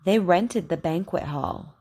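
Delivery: careful teacher model sentences, KW sound stressed; over enunciating. Shown as a demonstration. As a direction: say each word clearly for learners to repeat. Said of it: "Repeat after me".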